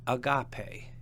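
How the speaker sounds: agape stressed on GA, a-GA-pe; stress on middle syllable. Shown as a demonstration. Teacher showing an example word, agape stressed on GA. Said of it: "accent on the penult".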